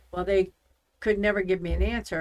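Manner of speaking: usual speaking voice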